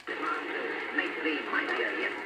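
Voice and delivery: deep, slow, whispery voice from a tape; a distant, distorted voice off a recording; low murky voice through static; ghostly recorded voice. Real, not acted. Played recording of spirit voice.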